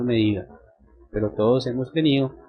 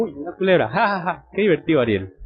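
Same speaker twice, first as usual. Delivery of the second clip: higher-pitched imagined delighted reaction with pretend laughs; mock amusement; 4 semitones higher than usual. A boy imagines his sister enjoying his snake prank, mock amusement. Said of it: "Yo esperaba la reacción como".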